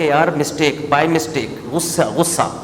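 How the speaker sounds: lightly mimicked sheepish, offhand excuse; feigned innocence. Sly husband excusing a triple divorce, mock-innocent. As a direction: play down the mistake, imitating a sly excuser. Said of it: "اب بڑے آرام سے گھنا بنا ہوا کہہ رہا ہے".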